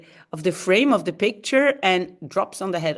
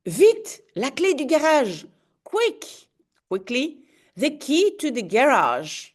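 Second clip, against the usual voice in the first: urgent order; 4 semitones higher than usual. Acted. Urgent captain's order in comic.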